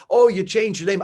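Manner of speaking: playful yelled accusation; mock yell. Retelling how fans yell at him, mock yell. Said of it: "people yell at me all the time".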